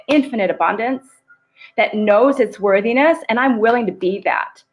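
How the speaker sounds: calm meditation guide leading an affirmation; guided meditation. Acted. Coach to live audience, guiding breath and intention, calm meditation voice.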